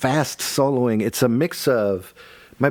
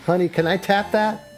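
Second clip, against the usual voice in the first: laughing; 9 semitones higher than usual. Pretend. Silly flirting bit, laughing.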